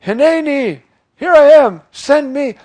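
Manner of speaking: preacher voicing Isaiah's eager yes to God; eager volunteer. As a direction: throw yourself forward, desperate to be sent. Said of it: "And so here I said".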